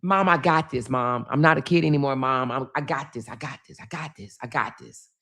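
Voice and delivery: low, offhand self-assurance, softening as it repeats; retold confidence. Confident daughter assuring mother she can cope, low and assured. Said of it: "She's so confident".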